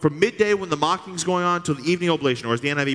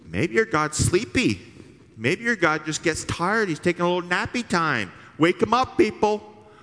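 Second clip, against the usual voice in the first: mocking heckle; 6 semitones higher than usual. Continuing Elijah's heckling.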